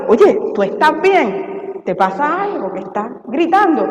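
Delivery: pregunta suave y lenta, con cariño; háblale en privado, más bajito y despacio; preocupación amable. Retold or imitated. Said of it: "en privado". (hermana preocupada que pregunta en privado, suave)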